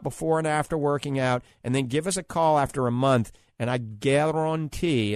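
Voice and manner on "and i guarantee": slow, drawn-out New Orleans guarantee; New Orleans accent. Shown as a demonstration. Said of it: "that's my New Orleans accent".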